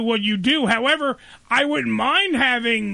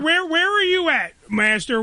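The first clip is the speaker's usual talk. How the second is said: genie; 4 semitones higher than usual. Pretend. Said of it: "I sound like I'm fucking Genie in the lamp".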